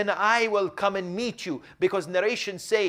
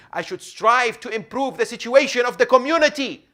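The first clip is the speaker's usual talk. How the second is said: rousing exhortation; 8 semitones higher, 10 dB louder than usual. Real, not acted. Preacher exhorts the community.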